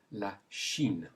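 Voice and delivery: "la Chine" in French, starting sheen; sh sound. Shown as a demonstration. Teacher shows learners the sh in a country, French sh sound. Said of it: "with the sh sound".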